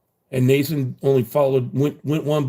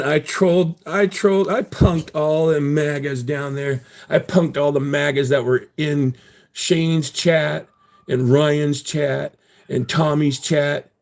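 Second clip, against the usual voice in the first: excited bragging; 3 semitones higher, slower than usual. Real, not acted. Bragging about trolling.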